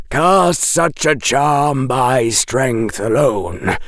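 a dry professor correcting the rescuer; Quirrell lecturing. Acted. Narrator voices Quirrell lecturing.

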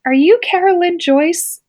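lightly voiced hero greeting a kid; Summer Sanders. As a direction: gently mimic a famous swimmer asking her name. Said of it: "Summer Sanders is standing there and she's like".

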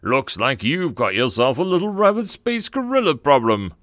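loud, far-off captain's voice over the speakers; swaggering hero over the intercom; gravelly booming captain. A narrator's reading. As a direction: play a swaggering space marine hero on the intercom. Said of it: "a deep gravelly voice loud enough".

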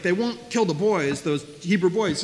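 mildly exasperated imitation of a ruler; frustrated. Lecturer voices Pharaoh complaining about the midwives, mildly frustrated. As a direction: act out a touch of frustration. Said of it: "he's so frustrated".

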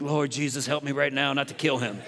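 quick prayer under the breath, soft and low; retold hushed plea for self-control; holding back anger. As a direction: pray quietly for restraint, played for laughs. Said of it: "I felt it coming up in me".

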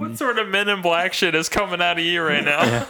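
laughing incredulous question. Real, not acted. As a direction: laugh through the teasing. Laughing reaction to burp.

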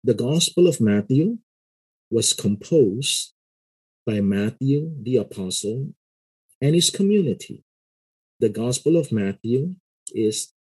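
slow seminary lecture, phrase by phrase with pauses; slow lecturing. Shown as a demonstration. Seminary lecturer to note-taking students, slow and measured. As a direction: dictate it to students taking notes. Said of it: "I speak very slowly like this".

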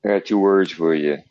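mocking impression, building to a loud, high 'you'; impression of someone. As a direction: mimic him, swooping up high on the last words. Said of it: "You sound just like him".

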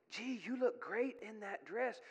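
softened, tempting devil's aside; hushed retold temptation, not a true whisper. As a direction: coax softly, as if into an ear. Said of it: "was whispering in my ear".

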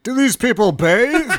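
high, slow, appalled; disgusted viewer. Pretend. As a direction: recoil at the smell. Imagined viewer reacting to video.

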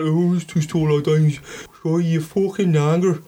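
Cork impression that slides into Birmingham; mock Cork accent. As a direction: attempt a Cork local, sounding Brummie. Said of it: "He sounds like he's from Birmingham".

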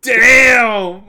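high, loud "Damn!"; loud gamer yelling at the cutscene; amazed shout. Retold or imitated. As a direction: blurt it in awe. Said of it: "And I was like".

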